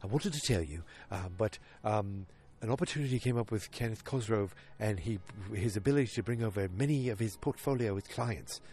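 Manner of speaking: lightly British, hesitant; a hint of polite British hedging; Lane Price impression. Lane softening the news to Pete, a hint of British. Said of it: "Lane, you know, very much is like".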